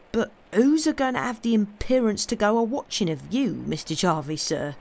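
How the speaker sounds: lightly voiced countryman, puzzled and indignant; homely dialect, trailing down on the address; rustic companion, incredulous. Job asks who would dare watch, rustic incredulity.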